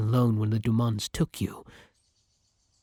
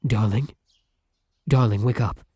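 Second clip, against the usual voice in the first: raised, urgent call to a sleeper; urgent waking call; 4 dB louder than usual. Acted. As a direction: rouse your sleeping partner, a little louder.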